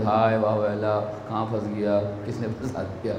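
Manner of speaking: half-hearted wailing, softly trailing away; mock lament. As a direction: imitate a groom bemoaning his trap, low and hushed. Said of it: "हाय वाह वाला शुरू करते".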